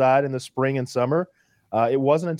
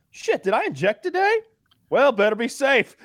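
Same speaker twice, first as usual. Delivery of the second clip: panicked self-talk; 10 semitones higher than usual. Retold or imitated.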